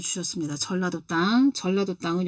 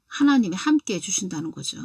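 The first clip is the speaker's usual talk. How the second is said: ordinary delivery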